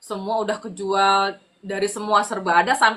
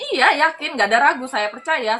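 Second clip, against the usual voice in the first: higher, punchy affirmation; retold firm yes, pitched up; emphatic assurance; 5 semitones higher, 3 dB louder than usual. Answering someone who doubts the faith, emphatic assurance.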